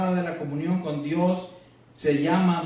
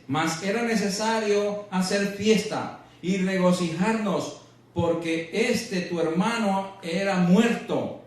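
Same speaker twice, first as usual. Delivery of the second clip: slow, raised declamation of the verse, easing down; scripture reading; 4 semitones higher, slower than usual. Acted. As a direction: read it out slowly to the congregation. Reads scripture aloud to congregation. (lectura bíblica declamada y pausada)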